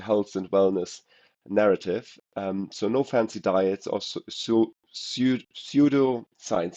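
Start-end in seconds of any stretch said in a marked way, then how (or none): 4.3-6.8 "pseudoscience" said slowly after stumbling starts "su-, pseu-"; struggling to pronounce. Real, not acted. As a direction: sound out "pseudoscience" syllable by syllable after false starts. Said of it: "the words I can't, can't pronounce here".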